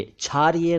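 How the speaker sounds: क्षारीय begun with chh, "chhariya"; wrong chh onset. Shown as a demonstration. Teacher rejecting mispronunciation: क्षारीय as "chhariya". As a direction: say क्षारीय with chh replacing ksh. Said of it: "क्षारीय नहीं".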